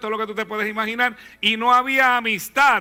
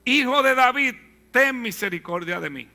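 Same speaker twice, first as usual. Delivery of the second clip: crying out; 4 semitones higher than usual. Acted.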